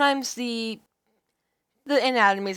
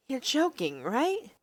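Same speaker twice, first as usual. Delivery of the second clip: put-on pitched up, concerned young woman; raised girlish heroine voice, worried; earnest heroine voice; 4 semitones higher, 4 dB quieter, slower than usual. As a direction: play the heroine, eager to help.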